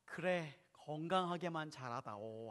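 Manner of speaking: soft, low, slow parental sigh of a line; a mother quietly putting up with it; resigned mom. Acted. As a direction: give in gently, drawing the words out quietly. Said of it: "엄마가 어떻게 하죠".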